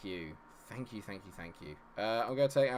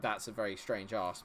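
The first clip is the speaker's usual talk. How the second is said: usual speaking voice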